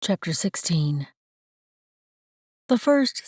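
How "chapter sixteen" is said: whispered chapter heading. Shown as a demonstration. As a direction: breathe it out unvoiced. Chapter heading read aside.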